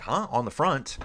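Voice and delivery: mock puzzlement, rising into a question; puzzled reaction. Streamer recalls reacting to the rider on the front, puzzled. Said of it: "Dude, I was kinda like".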